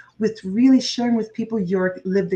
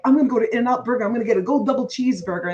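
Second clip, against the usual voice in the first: fast imitation of brother; much faster than usual. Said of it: "my brother would say things like".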